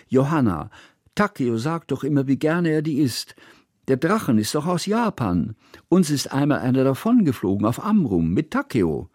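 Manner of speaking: put-on high, lively girl's voice; eager child. A narrator's reading. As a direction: explain it to the grown-ups eagerly. Girl explains bitter melon.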